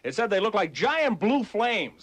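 upbeat sixties DJ over the music; radio DJ patter. Acted. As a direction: hype the station between records.

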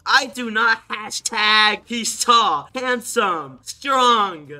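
slow, put-on voice reading her message; slow mocking read of a fan's boast; mock girly chat voice. Reading the girl's chat aloud.

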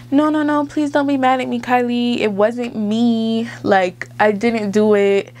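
high, pleading mock denial. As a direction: imitate a liar begging not to be blamed. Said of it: "she's just like".

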